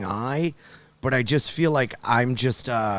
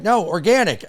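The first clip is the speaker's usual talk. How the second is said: put-on girlfriend voice; 7 semitones higher than usual. Girlfriend voiced in retold call.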